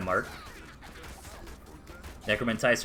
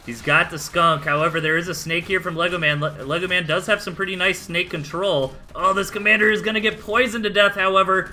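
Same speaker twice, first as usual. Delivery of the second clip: excited play-by-play; 6 semitones higher, 3 dB louder than usual. Real, not acted. Fight turns, caster hypes.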